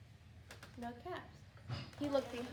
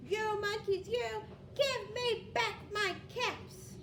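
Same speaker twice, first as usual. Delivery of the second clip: angry peddler; 8 semitones higher, slower than usual. Acted. Peddler scolds the monkeys again, angrier and slow. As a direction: scold slowly, shaking both hands. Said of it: "This made the peddler angry".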